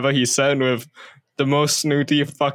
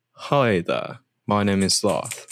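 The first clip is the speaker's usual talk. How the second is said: lower-voiced character try-out; tentative character voice, pitched down; Larth; 4 semitones lower than usual. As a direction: introduce yourself in a lightly put-on, lower voice. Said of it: "I'm gonna try and do Larth".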